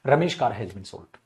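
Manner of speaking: रमेश कार slow, no apostrophe s sounded; slow model रमेश कार; silent s. Shown as a demonstration. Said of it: "spoken में कैसे बोलोगे बेटा?".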